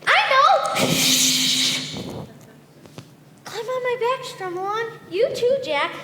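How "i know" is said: high loud eureka; excited idea. Acted. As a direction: burst out with the idea. Sudden idea.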